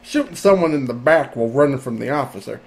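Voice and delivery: put-on hick Southern accent reading; deep south accent. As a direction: read it like a redneck. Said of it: "what should I make this person sound like?".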